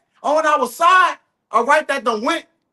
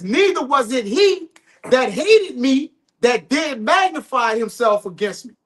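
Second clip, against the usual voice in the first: scripture reading. Real, not acted. Reading the psalm to his co-hosts, measured scripture reading. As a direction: read it out deliberately, phrase by phrase.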